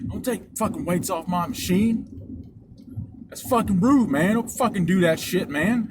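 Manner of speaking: lightly acted indignant yell; mild mock yell. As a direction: imitate a worked-up man scolding. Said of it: "he comes storming back yelling".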